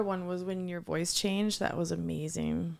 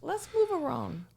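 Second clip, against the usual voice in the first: higher-pitched put-on Chinese accent; mock Chinese accent; 8 semitones higher than usual. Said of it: "I can do that, though".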